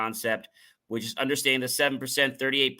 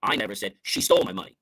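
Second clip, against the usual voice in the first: quick run with stole punched; stress on stole; 4 semitones lower, faster than usual. Shown as a demonstration. Speaker showing how emphasis shifts meaning, stress on stole. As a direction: hit the word stole. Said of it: "when we change the emphasis".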